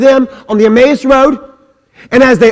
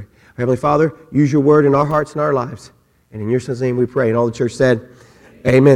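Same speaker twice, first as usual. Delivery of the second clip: lower, soft closing prayer; 8 semitones lower, 5 dB quieter, faster than usual. Acted. Preacher closing the sermon in prayer, soft. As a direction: pray quietly over the church.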